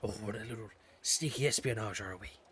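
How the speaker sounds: put-on whispered Irish accent, pirate-like. Playing along about being on a mission, in a whispering pirate-like Irish accent. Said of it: "I sound like a pirate".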